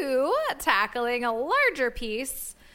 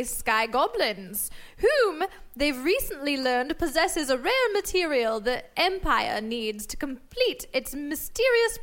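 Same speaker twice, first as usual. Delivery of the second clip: story narration. Acted. Narrating episode recap.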